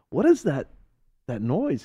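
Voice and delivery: high-pitched puzzled asking; baffled question. Acted. Friend repeats question aloud.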